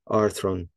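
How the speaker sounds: "Arthron" with AR stressed; "Arthron", strong AR and lighter thron; stress on first syllable. Shown as a demonstration. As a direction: put the accent on the start of "Arthron". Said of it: "first syllable".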